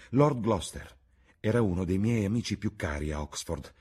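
ordinary delivery

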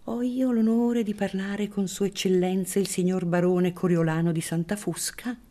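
high, sugary priest; unctuous priest voice. Acted. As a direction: chew the words like stewed prunes. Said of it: "masticando le parole col gusto".

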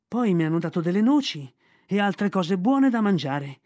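put-on a boy proudly retelling a treat; eager boy. Mowgli's eager child voice.

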